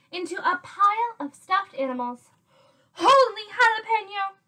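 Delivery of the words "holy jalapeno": high, loud cry of amazement; excited kitten's squeal of discovery; exclaiming. A narrator's reading. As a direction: burst out in astonishment. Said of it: "exclaimed Skippy John Jones".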